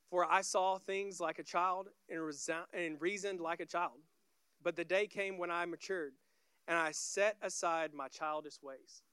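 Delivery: measured, emphatic Bible reading; scripture reading. Acted. Preacher reads verse eight to the congregation, scripture reading.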